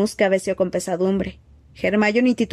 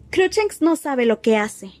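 trembling voice; 5 semitones higher, slower than usual. A narrator's reading. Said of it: "con voz temblorosa".

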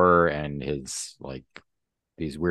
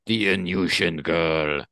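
put-on loud Russian-accented command; Russian accent, sizzling oil; 3 dB louder than usual. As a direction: cut him off as an imperious Russian villain. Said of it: "your Russian accent to sizzling oil".

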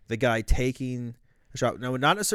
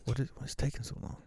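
impatient handler; 10 dB quieter, faster than usual. Acted. Handler scolds sniper in roleplay.

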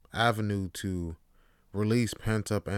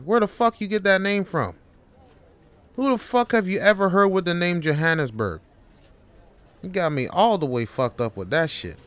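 louder, higher furious yelling; angry outburst; 5 semitones higher, 4 dB louder than usual. Acted. Worker blowing up at his boss and calling him out, loud and angry. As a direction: explode and challenge him to fight.

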